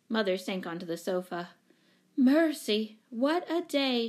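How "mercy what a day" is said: mild weary groan, pitched up. A narrator's reading. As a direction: exclaim with a touch of exhaustion. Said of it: "she groaned".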